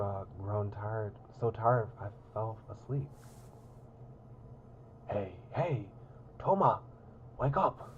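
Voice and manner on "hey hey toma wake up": calling out. Acted. Calling to wake Toma.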